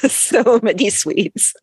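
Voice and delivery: laughing through the words, slow and high. Real, not acted. Laughing repeat of the phrase.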